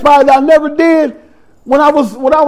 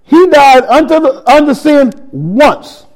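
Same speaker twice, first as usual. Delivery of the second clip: slow, measured Bible reading; a preacher reading Romans aloud; scripture reading. Acted. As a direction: read the verse with weight.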